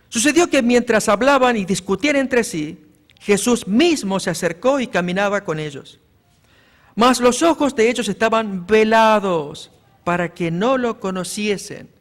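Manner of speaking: loud, solemn Bible reading; scripture reading. Acted. Preacher reads Luke to the church, loud and solemn. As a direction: proclaim the text to the congregation.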